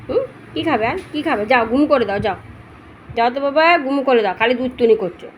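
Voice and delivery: fond scolding of a naughty puppy; talking to the dog. Real, not acted.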